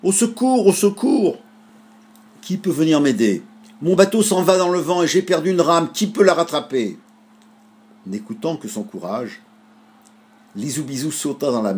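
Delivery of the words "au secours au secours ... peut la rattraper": put-on small boy crying for help, much higher and louder; a little boy shouting from his drifting boat; boy calling for help. A narrator's reading. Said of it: "entendit un petit garçon appeler". (petit garçon qui appelle au secours, voix très aiguë)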